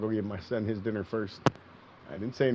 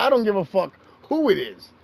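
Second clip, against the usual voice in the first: high, loud, slowed mock outrage; mock angry rant; 9 semitones higher, 9 dB louder than usual. Husband mock-scolding wife over dinner, loud and hammed-up. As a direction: ham up the scolding, half joking.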